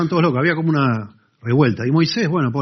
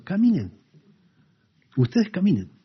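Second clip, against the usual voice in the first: commanding God; 8 semitones higher than usual. Retold or imitated. God insists they walk.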